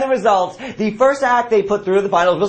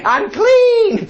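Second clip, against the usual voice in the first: mock squeaky voice; 4 dB louder than usual. Mock quote of a singer.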